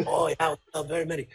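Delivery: quick imitated Japanese accent. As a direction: imitate a Japanese businessman agreeing. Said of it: "here's my Japanese accent".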